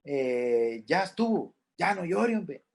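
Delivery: a hint of a brushing-off friend; impatient comforter. Careless friend tells a mourner to stop crying, lightly mocked. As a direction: shoo the grief away, mildly mocking. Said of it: "se le dice a la persona".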